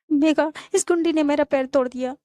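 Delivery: mock-distressed appeal; whining complaint. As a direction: complain as if badly wronged. Acted complaint to friend about injury.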